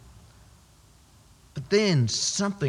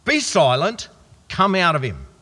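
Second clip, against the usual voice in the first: firm, louder rebuke; stern command; 6 dB louder than usual. Acted. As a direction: order the demon out with authority. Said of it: "Jesus just said sternly".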